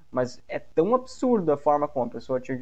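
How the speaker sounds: normal talking voice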